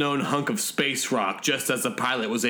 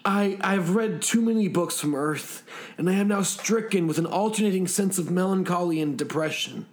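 higher, melancholy character voice; tearful pilot; 4 semitones higher than usual. Acted. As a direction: lament it like a mildly weepy pilot. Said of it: "He was secreting tears".

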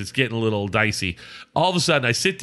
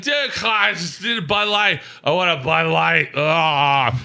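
put-on higher-pitched drunken whine for a drink; drunk pleading; 3 semitones higher than usual. Drunk customer begging the bartender for beer, drunk pleading. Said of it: "You seem like you're drunk".

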